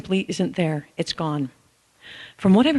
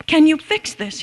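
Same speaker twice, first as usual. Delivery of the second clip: higher, pleading imitation of upset dad; 10 semitones higher, 4 dB louder, slower than usual. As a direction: play the worried father, voice lifted high. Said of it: "in a very upset tone".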